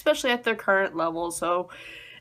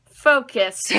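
mock scolding. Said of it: "and I'm just like".

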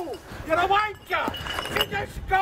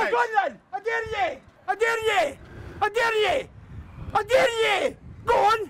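real taunting shout; 3 semitones higher than usual. Real, not acted. Truck owner goads the departing driver, rising shout. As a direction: goad them, build to a yell.

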